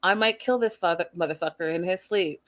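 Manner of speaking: imagined inner rage. Retold or imitated. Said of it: "She's like".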